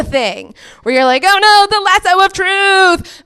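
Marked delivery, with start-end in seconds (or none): 1.3-3.2 loud high wail of panic; mock dread. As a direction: cry out in hammed-up horror. Mock terror of men, acted.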